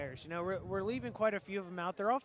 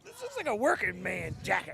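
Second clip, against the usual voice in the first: mock working man; 6 semitones higher than usual. Commentators joking about a jacket, hammed-up working man voice. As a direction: puff up like a proud working man.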